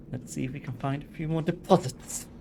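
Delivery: imitating a disgusted line, pitch climbing toward the end; obvious disgust. Player mimicking a game character's line, mock disgust. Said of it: "He says that with, like, obvious disgust".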